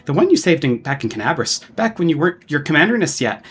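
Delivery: lightly voiced flustered old dwarf, quick; stammering old dwarf. Old dwarf director eagerly greets the commander, flustered. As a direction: rattle on like an eager theater director.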